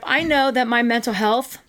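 talking through hiccups. Real, not acted. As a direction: hiccups breaking the words. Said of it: "now I have the hiccups".

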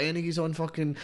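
high, loud street-seller call; mock salesman bellowing out the window; hawking shout. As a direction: call out to the whole street from a car.

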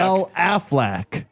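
Spanish duck voice. Shown as a demonstration. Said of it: "Spanish duck".

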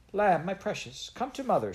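put-on a mother calling her baby in alarm; crying out. A narrator's reading. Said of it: "she cried".

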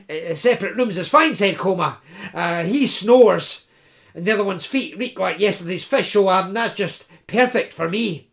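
high, stammering, fussing student voice; nervous hungry student. Acted. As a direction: fret and stammer about supper. Koma voice.

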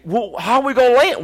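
high, loud hammed-up panic; mock panic. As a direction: act out freaking out in a high voice. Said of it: "I freaked out".

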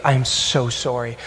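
softly imitated heartfelt apology; quietly re-enacted sorry, lingering on it; retold apology. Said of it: "I just start apologizing".

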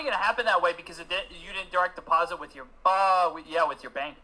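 muffled, like sound underwater. Real, not acted. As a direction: voice through a water-logged mic. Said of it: "why I sound like I'm underwater".

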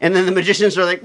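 ordinary talk, nothing marked

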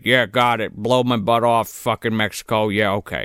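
low, muted grudging agreement; mock resigned compliance. Glued captive repeating the orders back, mock resigned and low.

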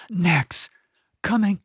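calling out high across the lane. Acted. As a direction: shout ahead to the cat. Boy calls from the rooftops.

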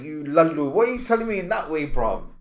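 high, fast, incredulous scolding; mock scolding. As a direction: scold the friend with disbelief. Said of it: "I was like".

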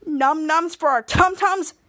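slow, questioning "Num nums" and "tum tums"; incredulous echo. Retold or imitated. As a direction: repeat "tum tums" slowly in disbelief. Captain repeats Chopper's phrase in disbelief.

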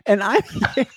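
woo her like a self-loving city bro; Chad Charming voice. Acted. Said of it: "that's what Chad would sound like".

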